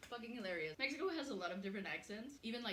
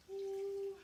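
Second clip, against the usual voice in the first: excited whoop; 11 dB louder than usual. Real, not acted. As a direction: squeal with delight. Excited cry over spicy food.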